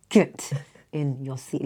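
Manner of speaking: slow strict order through a laugh; laughing stern command. Retold or imitated. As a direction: snap at a pupil, then laugh. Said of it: "The next minute I'm like".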